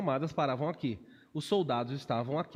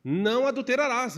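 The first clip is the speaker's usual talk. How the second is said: emphatic quote; 7 semitones higher, 6 dB louder than usual. Real, not acted. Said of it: "Está escrito o quê?".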